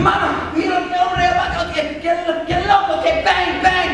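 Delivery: high, loud frantic babble to mother; acted panicky yelling; frightened son. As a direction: blurt it in a mimicked panic. Acts out frightened son calling mother.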